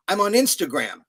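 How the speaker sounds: proudly over-the-top reassurance to wary youngsters; mock announcement. Acts out winning over young people.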